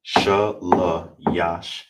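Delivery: shalayashya drawn out very slowly; very slow model. Shown as a demonstration. Teacher gives the final model very slowly. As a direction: stretch every syllable of shalayashya. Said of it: "That's how you say third".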